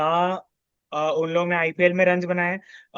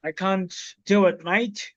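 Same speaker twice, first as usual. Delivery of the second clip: put-on a half-hearted Australian accent; hint of an Australian twang; slower than usual. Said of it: "Get the Australian accent".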